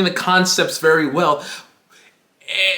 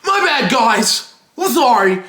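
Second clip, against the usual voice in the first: mock apology; 5 semitones higher than usual. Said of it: "He's like".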